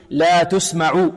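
تسمع with damma on the taa, "tusma'u"; drawn-out recitation, تسمع as "tusma'u"; Qalun reading. Shown as a demonstration. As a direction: slowly recite تسمع opening on "tu". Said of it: "لكن عند قالون".

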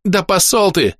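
high, exasperated outburst; high-pitched angry goblin retort; heated exclamation. A narrator's reading. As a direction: fling the insult out in a temper. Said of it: "в сердцах воскликнул Тыждак".

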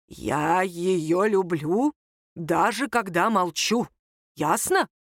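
put-on very slow, measured old man's declaration; deliberate grandfatherly reply, drawn out; stern grandfather. A narrator's reading. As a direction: state it slowly and firmly. Grandfather answers the challenge slowly.

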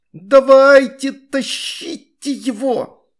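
high, loud, drawn-out order; commanding shout. A narrator's reading. Astrid commanding the kids at the net, loud and high. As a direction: bark the order to pull. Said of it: "командовала Астрид".

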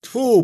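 loud high spit; a loud, high spitting sound of disgust; spitting tfu. A narrator's reading. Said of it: "плюнули обе тётки".

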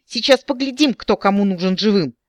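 furious, high and loud threat; enraged. A narrator's reading. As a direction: snarl the threat in rage. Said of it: "взъярился оборотень".

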